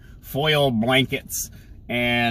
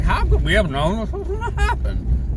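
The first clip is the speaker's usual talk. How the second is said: very high, put-on mock shock; hammed-up falsetto of feigned surprise; 13 semitones higher than usual. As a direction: parrot their pretend surprise in a falsetto. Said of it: "That you're pretending like".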